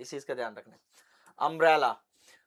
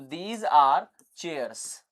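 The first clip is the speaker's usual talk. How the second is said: slow model sentence; 3 semitones lower, much slower than usual. Shown as a demonstration. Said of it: "क्योंकि पास में ही है ना इसके".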